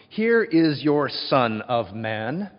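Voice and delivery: slow, drawn-out mock announcement; patronizing. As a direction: sneer as you present him. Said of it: "Can you sense the patronism?".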